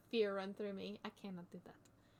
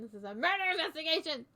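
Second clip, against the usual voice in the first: indignant exclamation; 3 semitones higher, 6 dB louder than usual. Acted. Character protests during investigation.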